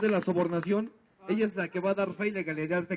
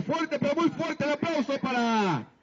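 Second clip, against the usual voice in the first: high, slow stretched-out announcer call; silly clown announcer; 7 semitones higher, slower than usual. Acted. Clown announcing applause, drawn out.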